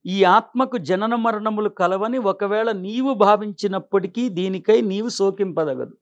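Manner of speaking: stately recital of a verse translation; formal verse recitation. Acted. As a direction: read the sacred verse out in full, measured phrases.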